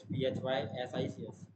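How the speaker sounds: each letter of "T R I G N O" said separately and clearly; spelled out letter by letter. Shown as a demonstration. Student spelling the subject name for viewers, letter by letter. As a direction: spell "T R I G N O" one letter at a time. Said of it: "spells physics letter by letter".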